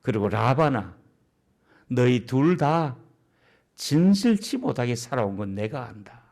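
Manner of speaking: low, measured, knowing voice; God addressing both. Acted. God addresses Jacob and Laban, low knowing voice. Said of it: "하나님께서 이 두 사람의 대화를 보면서".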